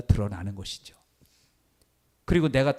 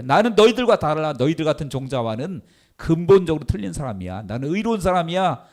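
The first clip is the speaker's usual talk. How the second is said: higher, louder boastful Pharisee; a proud Pharisee sneering at common folk, boastful; mock boast; 5 semitones higher, 4 dB louder than usual. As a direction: brag like a smug Pharisee. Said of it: "그렇게 자랑했다라는 거예요".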